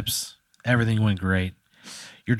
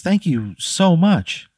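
lightly voiced witch, pitched up; 8 semitones higher, much slower than usual. The witch greeting Pat under the overpass, high and relieved.

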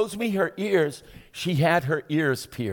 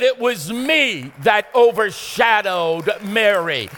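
voice of God; 3 semitones higher, 4 dB louder, slower than usual. Acted. God speaking to the preacher.

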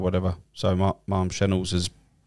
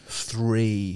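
normal talking voice

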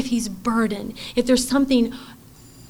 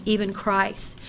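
soft close; 3 semitones lower, 6 dB quieter, slower than usual. Acted. End of scripture reading.

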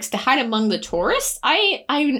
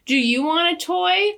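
higher, slow voice in someone's head; mysterious inner voice; 7 semitones higher, slower than usual. Acted. The voice offering Max a toy, mock mysterious inner voice. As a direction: put on a raised, unhurried otherworldly voice. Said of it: "the voice is like".

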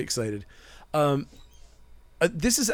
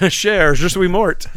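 put-on hammy, higher, louder French accent; bad French accent; 6 semitones higher, 9 dB louder, slower than usual. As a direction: ham up a cartoon French accent, slow. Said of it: "speaking of bad French accents".

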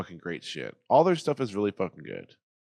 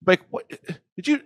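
much higher, louder startled question; panicked, higher and louder; startled alarm; 10 semitones higher, 7 dB louder than usual. Acted. Caller discovers open line.

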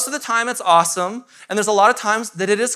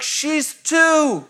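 laughing aside; 6 semitones higher than usual. Retold or imitated. Amused perspective on toddler.

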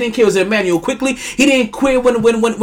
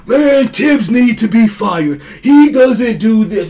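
mock complaining fan; slower than usual. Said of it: "Let the Knicks go on".

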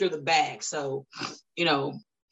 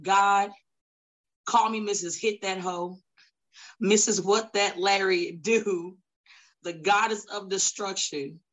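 wrestling promo brag. Acted. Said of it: "I'm the most ruthless female".

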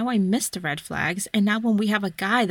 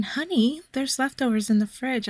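imitating a lady; 5 semitones higher than usual. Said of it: "it was like a lady saying".

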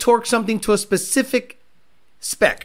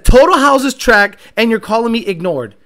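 mocking quote; 6 dB louder than usual. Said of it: "but he says".

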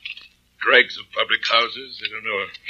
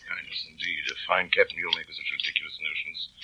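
quiet sneering scorn, much softer; scornful; 5 semitones lower, 11 dB quieter than usual. Acted. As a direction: sneer it under your breath. Bligh scorns Christian.

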